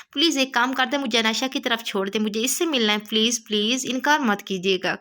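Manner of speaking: mild coaxing plea; pleading tone. Acted. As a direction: wheedle him gently into saying yes. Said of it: "منت بھرے لہجے میں کہا".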